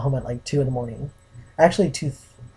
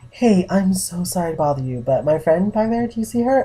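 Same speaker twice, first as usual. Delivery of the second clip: polite approach; 5 semitones higher than usual. Retold or imitated. Retold polite approach to a stranger.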